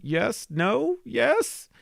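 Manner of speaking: high excited yes-no-yes; rising with each word. Retold or imitated. Retold tense reaction.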